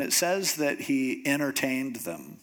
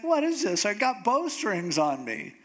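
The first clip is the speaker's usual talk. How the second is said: mock startled; 5 semitones higher than usual. Samson wakes up and finds bowstrings.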